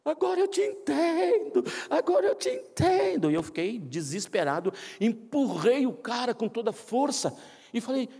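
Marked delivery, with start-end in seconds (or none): 0.0-3.3 high, loud tearful repeated cry; sobbing man. Retold or imitated. Crying man telling the pastor he finally understands. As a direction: sob it out, overcome with grief.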